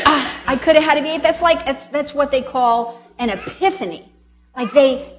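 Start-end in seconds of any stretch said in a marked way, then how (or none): 0.1-1.2 quick quote. Retold or imitated. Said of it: "when the person goes".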